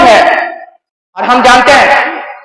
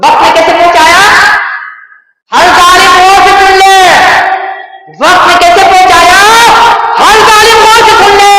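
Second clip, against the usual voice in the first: impassioned preaching warning; 5 semitones higher than usual. Real, not acted. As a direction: proclaim it to every listener, pitch rising. Preacher warns every oppressor. (ऊँचे सुर में उपदेशक की चेतावनी)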